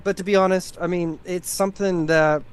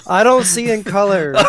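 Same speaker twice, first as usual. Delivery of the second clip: laughing; 6 dB louder than usual. Real, not acted. Joke delivered laughing.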